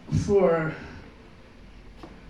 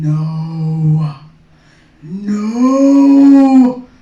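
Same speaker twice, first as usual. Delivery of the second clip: a flat "No", then a far louder shouted "No"; firm loud no; 12 dB louder than usual. Acted. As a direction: shut it down, then yell it. Acted refusal, growing louder.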